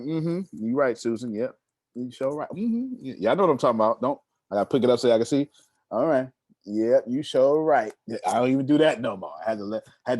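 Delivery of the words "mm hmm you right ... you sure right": distracted agreeing. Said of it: "Susan be talking".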